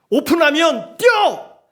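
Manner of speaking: high, punched shout to run; urgent call. Acted. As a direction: yell it like a starting signal. Acting out open-run dash. (다급하게 외치듯)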